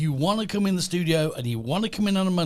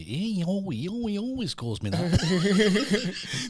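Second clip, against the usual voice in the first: slow laughing delivery; 6 semitones higher, much slower than usual. Acted. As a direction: laugh through the punchline. Donkey joke punchline.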